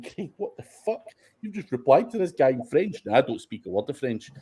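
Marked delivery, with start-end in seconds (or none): 0.0-3.0 high, incredulous mock outburst; a startled friend's mock outburst, high then falling away; retold disbelief. Messaged friend baffled by French replies, high incredulous mock outburst. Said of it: "sent me a message going".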